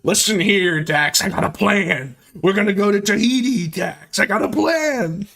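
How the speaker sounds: a loose, hinted Dutch impression pitching a scheme; Dutch from Red Dead. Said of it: "He's like Dutch in Red Dead".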